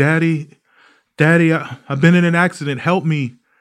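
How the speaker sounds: mock tearful sobbing, high crying voice. Retelling a phone call from a stranger: imitating a crying girl. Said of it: "there's a girl crying on the other end".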